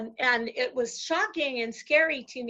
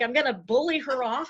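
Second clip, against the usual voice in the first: normal talking voice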